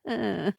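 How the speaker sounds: quiet, low little laugh; low chuckle. Acted. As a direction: chuckle softly to yourself. Chuckle after admitting bad advice.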